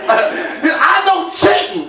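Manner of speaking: slow, drawn-out, shouted accusation; wild-eyed kid. Retold or imitated. Son accusing dad over board game, slow wild shout. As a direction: stretch each word like a crazed little kid. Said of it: "he had a wild look in his eye".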